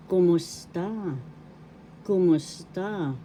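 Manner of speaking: "Kumusta?" said slowly and clearly, falling at the end; slow teaching demo. Shown as a demonstration. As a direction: model "Kumusta?" slowly for learners. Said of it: "In English, how are you?".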